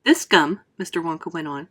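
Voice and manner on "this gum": a touch louder, boastful showman; lightly voiced proud inventor. Wonka boasting to the children, lightly played showman.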